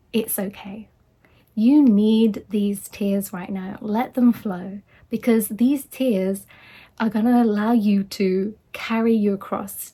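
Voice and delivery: slow, measured retold comfort; gentle reassurance. Friend replying to someone who can't stop crying, gentle reassurance.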